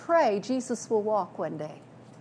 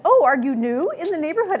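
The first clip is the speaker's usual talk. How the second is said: higher, lightly acted curious greeting; friendly neighbor greeting; 5 semitones higher, 4 dB louder than usual. Neighbor greets two women out walking, friendly and high. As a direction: voice a chatty neighbor, pitched up.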